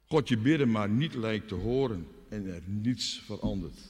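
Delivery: usual speaking voice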